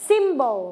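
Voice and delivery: "Symbol" with the first syllable stressed. Shown as a demonstration. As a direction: model "Symbol", leaning on SYM and letting the end fall. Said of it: "คุณนกออกเสียงเน้นหนักไปที่พยางค์ที่หนึ่ง". (เน้นหนักพยางค์แรกของคำว่า "Symbol")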